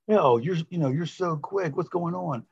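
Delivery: lightly voiced puzzled girlfriend; imitated girl's complaint. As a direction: put on the girl, high and light.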